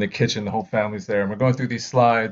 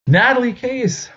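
name called out high; roll call; 13 semitones higher, 3 dB louder than usual. Retold or imitated. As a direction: announce each student's name. Names read in gym.

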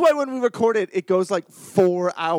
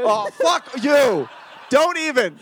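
mock disgust; 3 semitones higher, 3 dB louder, much slower than usual. Real, not acted. Rejecting his bad accent.

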